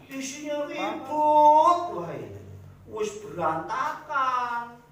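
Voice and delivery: high, loud and slow, hamming up a fed-up householder; mock exasperated complaint. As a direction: wail it like your house is a wreck. Complaint about a chaotic home. (keluhan kesal yang dilebih-lebihkan, tinggi dan lambat)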